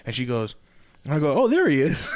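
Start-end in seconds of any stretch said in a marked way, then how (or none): 1.3-2.2 laughed out, high and louder; laughing relief. Retold or imitated. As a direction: laugh it out as the dog turns up. Dog found while cousin screams.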